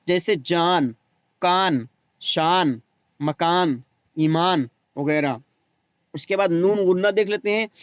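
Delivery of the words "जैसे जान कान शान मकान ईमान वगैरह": कान, शान, मकान, ईमान with the final न said fully and clearly, slowly; clear noon. Shown as a demonstration. Teacher showing the clear noon, slowly. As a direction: sound every न at the end clearly. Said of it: "नून साफ साफ पढ़ा जाए".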